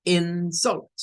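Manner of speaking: strong IN, weaker falling sult in "insult"; stress on first syllable. Shown as a demonstration. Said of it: "en el segundo caso se debe pronunciar como".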